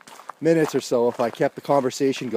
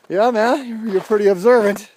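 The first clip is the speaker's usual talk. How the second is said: sarcastic; 8 semitones higher, 5 dB louder than usual. Retold or imitated. Sarcastic retort to friend.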